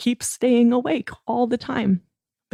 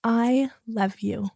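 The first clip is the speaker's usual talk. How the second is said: tender; 3 semitones higher, slower than usual. Shown as a demonstration. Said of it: "can you say".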